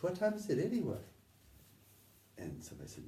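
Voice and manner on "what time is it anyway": quoting him. Retold or imitated. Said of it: "And he goes".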